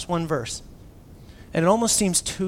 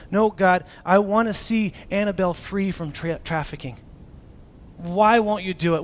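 frustrated plea; 4 semitones higher, 5 dB louder than usual. Retold or imitated. Frustrated prayer quoted.

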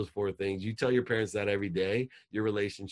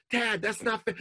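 put-on much higher, loud teen voice; whiny daughter; 5 dB louder than usual. Daughter woken by angry dad, high and whiny. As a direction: answer like a defensive teenage girl. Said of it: "imagine if I would have called".

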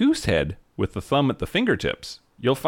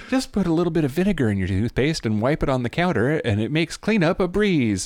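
lightly voiced sixties housewife tip; a hint of a chirpy magazine advice voice; 5 semitones higher than usual. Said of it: "what they said in Home and Gardens magazine".

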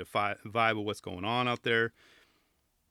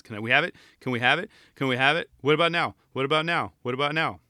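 put-on kids begging; 2 semitones higher, 4 dB louder, faster than usual. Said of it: "start being like my kids".

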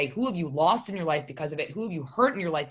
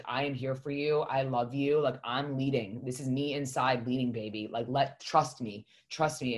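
tender self-reassurance; 2 semitones lower, 3 dB quieter than usual. Retold or imitated. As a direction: voice an inner self offering mild comfort. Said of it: "hug me and hold me".

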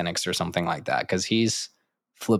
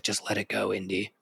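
soft quoted plea; 7 dB quieter than usual. Retold or imitated. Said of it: "He's like".

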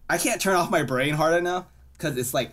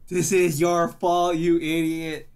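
blaming scold; 4 semitones higher, 4 dB louder, slower than usual. Retold or imitated. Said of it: "and I'm just like".

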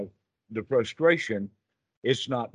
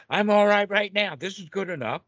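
confident winner; 9 semitones higher, 3 dB louder than usual. Retold or imitated. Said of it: "Winners say".

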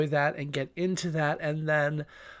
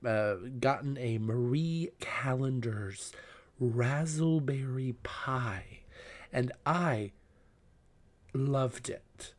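whisper; 3 semitones lower, 7 dB quieter, slower than usual. Real, not acted. Savouring the pie.

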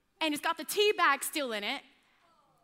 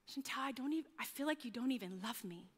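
breathless; 3 semitones lower, 9 dB quieter, faster than usual. Retold or imitated. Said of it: "gasping for air".

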